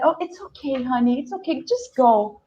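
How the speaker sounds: calm her down kindly; soothing cop. Retold or imitated. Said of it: "he said".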